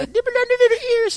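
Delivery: put-on high, fast baby talk to a cat. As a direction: coo like you're talking to a baby. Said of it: "I talk to her like a baby".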